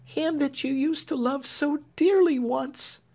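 high, earnest simple plea; homely earnestness. A narrator's reading. Clemency appealing to Marian for Alfred's sake, earnest and high. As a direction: plead plainly from the heart. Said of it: "with homely earnestness".

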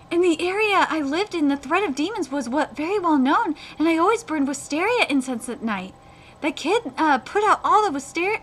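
earnest backstory narration; animated manga reading; story read-aloud. Acted. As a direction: read the character's past aloud. Reads character's backstory.

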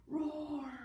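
big lion roar for the class. Shown as a demonstration. Teacher roaring to show the kids. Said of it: "Everybody go, roar!".

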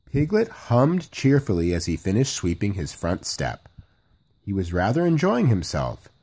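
put-on easy, gentle read-aloud to children; storybook narration. A narrator's reading. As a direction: tell the story cozily at bedtime.

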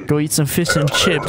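lightly hammed British accent; a joking stab at British. Teasing friend with fish and chips, mock British accent. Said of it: "did you just do British?".

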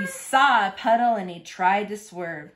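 lively, rhythmic picture-book narration; reading to children. A narrator's reading. Reader shares a truck story with little Longhorns, lively storytelling. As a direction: read the rhyme out clearly for little listeners.

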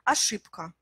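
Ashipka with P in place of B; devoiced B. Shown as a demonstration. Teacher showing the easier pronunciation, devoiced B. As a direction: say "Ashipka" with a voiceless p before k. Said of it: "remplacez le son B par le son P".

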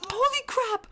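high-pitched cry of shock; high, appalled outburst; shocked exclamation. Real, not acted. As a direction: burst out in alarm. Shock at what happens to character.

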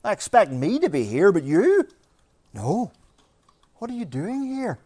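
mock incredulous challenge. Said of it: "unbelievers are going".

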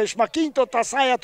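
ordinary talk, nothing marked

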